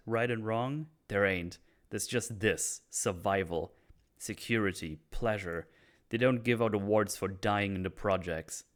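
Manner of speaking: acted scorn with a touch of heat; a bitter speech, mildly performed; angry lecture. Oz lectures Vic on what is shameful, mildly angry. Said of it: "I like how angry Oz is here".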